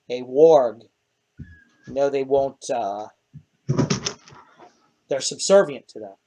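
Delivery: low, quiet in-character explanation; Lynn, subdued. Acted. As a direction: explain it low and softly, with hesitations.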